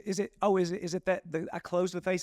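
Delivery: high mock-innocent questions; sarcastic anger. Retelling the golf fight, sarcastic and high. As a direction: play dumb sarcastically, voice up. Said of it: "He got real sarcastic with his anger".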